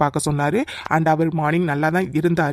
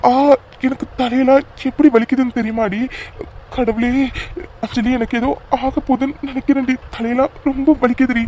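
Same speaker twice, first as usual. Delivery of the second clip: faked pain; 5 semitones higher than usual. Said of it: "அப்படியே நடிக்காதடா".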